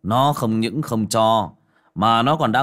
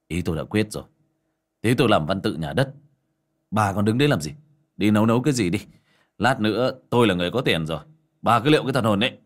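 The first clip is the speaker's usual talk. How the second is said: haughty tone; much faster than usual. Acted. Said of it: "giọng trịch thượng".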